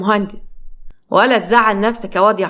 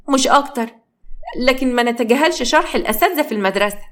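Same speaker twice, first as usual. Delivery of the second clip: put-on disgusted girl; 3 semitones higher than usual. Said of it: "بصت لها بقرف".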